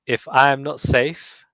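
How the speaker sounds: each word given space, unhurried; slow, deliberate reading. Shown as a demonstration. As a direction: read it slowly with pauses. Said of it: "Kerry said I spoke too fast".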